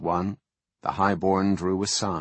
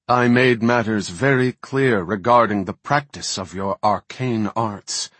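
booming male voice; 2 semitones higher, 5 dB louder than usual. Acted. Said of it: "boomed a voice from every direction".

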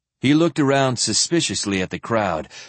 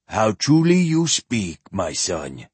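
put-on old zealot voice; 2 semitones lower than usual.

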